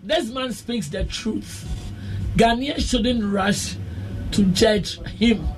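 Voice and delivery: soft reading. Acted. Reading a listener's text message aloud.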